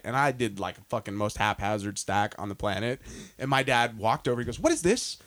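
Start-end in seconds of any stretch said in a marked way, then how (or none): 4.6-5.2 much higher, incredulous scolding dad; mock a father appalled at the woodpile. Recalling his dad scolding his messy stacking.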